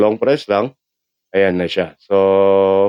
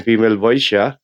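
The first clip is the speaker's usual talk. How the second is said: female voice changer. Shown as a demonstration. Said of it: "Ayan, female vo".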